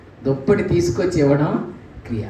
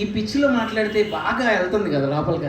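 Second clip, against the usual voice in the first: ordinary talk, nothing marked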